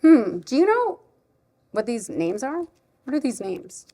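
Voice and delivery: put-on playfully puzzled, asking a small child; mock-clueless storytime question; pretending not to know. Shown as a demonstration. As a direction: wonder aloud as if you had no idea. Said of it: "I like pretending like I don't know".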